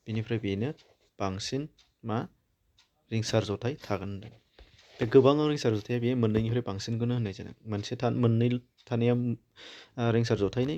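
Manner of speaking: normal talking voice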